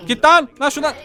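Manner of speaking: sharp high shout; yelling. Real, not acted. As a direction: shout him off. Yelling at chasing character. (bağırarak)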